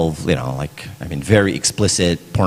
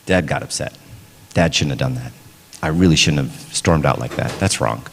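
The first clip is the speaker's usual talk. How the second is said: lower, measured mock apology to a child; apologetic dad; 6 semitones lower than usual. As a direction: own up to your kid, pitch dropped. Parent apologising to child, acted.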